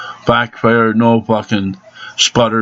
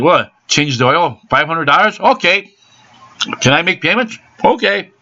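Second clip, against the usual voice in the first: his own past voice, much higher, playing the pushover customer; mock incredulous self; 7 semitones higher than usual. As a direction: squeak out each question like a sucker being fleeced. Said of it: "Seemed like every time I said".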